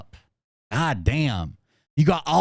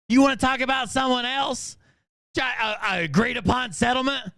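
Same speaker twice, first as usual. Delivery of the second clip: angry shout; 7 semitones higher than usual. Real, not acted. Angry rant at her.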